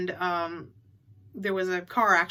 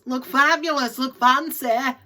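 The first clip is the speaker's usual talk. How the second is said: mock glamorous; 4 semitones higher, 7 dB louder, slower than usual. Vlogger mocking shoppers dressed up for an auction, hammed-up glam voice. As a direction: look fabulous said higher and louder in a posh put-on voice.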